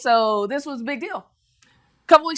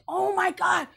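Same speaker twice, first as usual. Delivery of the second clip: lightly voiced excited women, higher; inspired women; 8 semitones higher, 4 dB quieter, slower than usual. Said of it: "they say".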